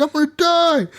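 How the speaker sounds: high imitation of panicked cry; mock freaking out. Podcaster voices YouTuber stuck in cement, mock freak-out. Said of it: "He's, like, freaking out".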